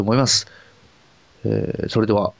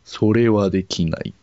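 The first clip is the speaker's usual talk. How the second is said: genie; slower than usual. Pretend. Dragon refuses slowly.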